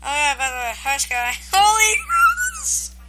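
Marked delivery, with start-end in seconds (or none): 1.5-3.0 excited squeal. Real, not acted. Meets the real Sky.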